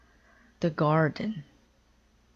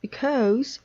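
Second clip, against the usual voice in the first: high, loud whiny wail; high wailing because; 9 semitones higher, 4 dB louder than usual. A narrator's reading. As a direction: draw it out like a fretful child. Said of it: "wailed Toad".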